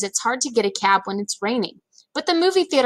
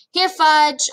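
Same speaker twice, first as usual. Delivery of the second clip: higher, louder sing-song call; calling a dog; 7 semitones higher, 5 dB louder than usual. A narrator's reading. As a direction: call him like a lost puppy. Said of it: "I sounded like I was calling a dog".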